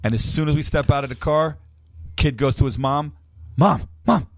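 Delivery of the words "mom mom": put-on high, loud excited kid voice with laughter; a kid tugging at mom, thrilled; mock excited child calling out.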